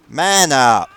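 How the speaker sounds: scornful bark. Real, not acted. Taunting screaming German.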